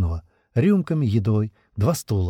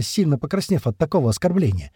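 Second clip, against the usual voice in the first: usual speaking voice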